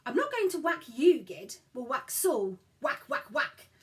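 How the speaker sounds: eager. Acted. Child urging game.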